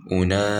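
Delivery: أولئك with a crisp hamza stop; أولئك, hamza sounded properly; clear hamza. Shown as a demonstration. Teacher modelling the proper hamza in أولئك. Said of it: "it has to be e".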